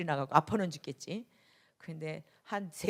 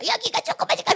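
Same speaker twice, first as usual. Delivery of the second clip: retold foreigner; 8 dB louder than usual. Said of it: "막 뭐라고 떠들면서".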